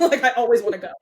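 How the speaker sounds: talking through a real laugh. Real, not acted. Laughs at own plug.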